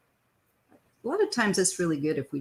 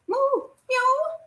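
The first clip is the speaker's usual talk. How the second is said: cooing at the cat; 3 dB louder than usual. Real, not acted. Talking to her cat.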